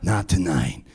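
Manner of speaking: low, soft, slow lazy voice; dopey cool singer. Retold or imitated. Comic imitating the Seattle singer teasing the crowd, low and slow. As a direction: drawl it like a stoner rock singer. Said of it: "He goes".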